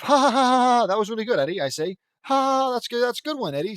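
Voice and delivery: loud, high mock laughing; hammed-up "ha ha" laughing praise; forced group laughter. Friends react to Eddie's impression, fake hearty laughing. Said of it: "We all laugh".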